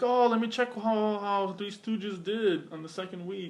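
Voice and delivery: slow, drawn-out imitation of curious listeners; mock listeners looking things up. Podcaster imitating listeners who check facts, mock musing. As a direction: lightly imitate someone musing as they check.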